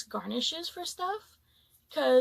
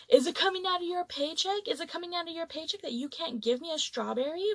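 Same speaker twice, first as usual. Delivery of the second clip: higher-pitched, indignant imitation of a customer; mock yelling; 3 semitones higher than usual. Angry customer berating server over a strawberry, mildly mock-yelled. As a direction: badger her with a mild mock yell. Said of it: "He proceeds to yell at her".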